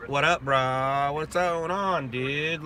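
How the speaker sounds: slow, laid-back Southern California bro; surfer dude talk. Shown as a demonstration. Showing chat how he can talk, bro style. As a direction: drawl it like a beach bro. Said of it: "I could totally talk, like".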